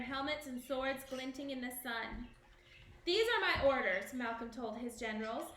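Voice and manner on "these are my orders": louder, higher command. A narrator's reading. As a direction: give orders firmly. Malcolm commands generals.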